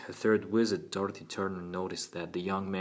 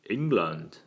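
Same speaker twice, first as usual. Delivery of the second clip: put-on louder, open, earnest Cockney boy; crisp Cockney accent; 5 dB louder than usual. A narrator's reading. Boy telling his lawyer his hobbies, crisp Cockney. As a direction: answer brightly as a Cockney lad. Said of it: "his crisp Cockney accent".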